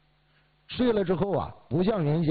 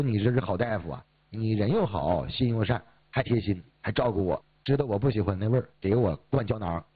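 lightly voiced old patient, pitched lower; imitated grateful praise; 3 semitones lower than usual. Old patient praising the kind doctor, lightly imitated gratitude. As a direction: list the praises low, imitating a thankful patient. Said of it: "就表扬我".

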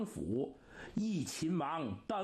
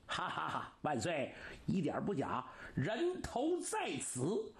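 gloating laugh. Acted. Villain gloats presenting the heads.

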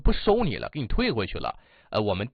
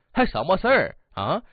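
mock brusque complaint; 3 semitones higher than usual. Rude customer complaining to the manager, mock brusque complaint. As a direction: push each complaint out, mildly heated. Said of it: "这大哥开口就挺冲的".

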